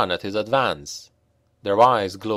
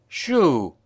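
higher sharp call to scare the rats; 5 semitones higher than usual. A narrator's reading. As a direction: shout the rats off the body. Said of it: "called Karel".

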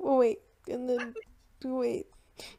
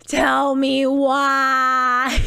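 exasperated cry; 4 dB louder, much slower than usual. Real, not acted. Despairing at own decision.

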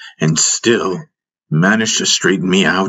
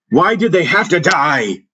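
anguished scream; 10 semitones higher than usual. A narrator's reading. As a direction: cry it out high, demanding an answer. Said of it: "I screamed at the mountains".

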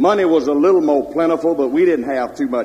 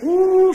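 spooky ooh; 5 dB louder than usual. Acted. Spooky swamp tale, headless man.

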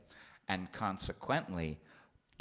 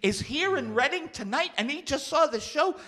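much higher, rising incredulous rant; mock disbelief; 14 semitones higher, 3 dB louder than usual. Real, not acted. Comedian marveling that a mafia boss saw his show, rising disbelief. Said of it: "incredulous rant".

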